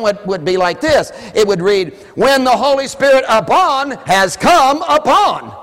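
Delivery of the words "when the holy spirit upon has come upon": loud, slow, higher, stressing upon and has come; slow emphatic proclamation; emphatic literal reading. Shown as a demonstration. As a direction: preach the doubled upon. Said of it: "See, it's an emphasis".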